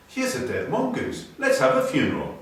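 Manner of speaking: put-on a child piping up over a find; small boy. Small boy finding the mongoose, lightly voiced child. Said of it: "a small boy was saying".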